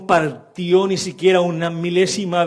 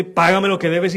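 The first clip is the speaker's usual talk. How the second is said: louder, pressing demand for payment; insistent demand; 4 semitones higher, 5 dB louder than usual. Retold or imitated. Servant demanding payment from his fellow servant, insistent. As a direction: press him hard to pay up.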